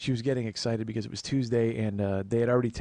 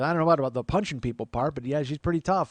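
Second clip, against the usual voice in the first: lightly voiced neighbor lady, higher and louder; Dottie; 4 semitones higher, 4 dB louder than usual. Neighbor judging his tough mom, higher lady voice. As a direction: concede it in a raised woman's voice. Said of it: "she goes".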